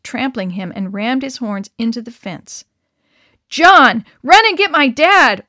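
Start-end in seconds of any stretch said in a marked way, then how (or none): 3.5-5.4 loud, high urgent command; order. Acted. Harry orders John to fetch his dad, loud command. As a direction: bark it as an order. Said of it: "ordered Harry".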